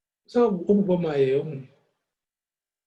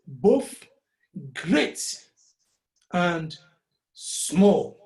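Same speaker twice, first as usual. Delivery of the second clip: "Both great and small" each word set apart, great lifted; much slower than usual. Shown as a demonstration. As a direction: give every syllable its beat. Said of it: "one syllable".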